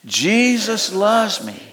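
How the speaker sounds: very slow, deliberate words; slow affirmation. Shown as a demonstration. Pastor repeating the affirmation with the congregation, very slowly. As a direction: draw each word out for the congregation to follow. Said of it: "Can you say it with me again".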